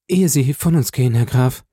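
höhere Frauenstimme, drängend; Julie, bittend. A narrator's reading. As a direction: noch schnell um Gehör bitten. Julie bittet vor dem Abschied. (leicht gespielte bittende Julie)

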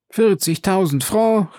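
höher und gedehnt, ungläubig; empörter Ausruf. A narrator's reading. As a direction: als könne sie die Summe nicht fassen. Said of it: "rief die Carconte". (Carconte empört sich über das Angebot, höher und langsam)

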